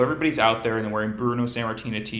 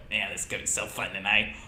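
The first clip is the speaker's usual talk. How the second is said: bad Irish accent; faster than usual. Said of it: "I can't do a good Irish accent".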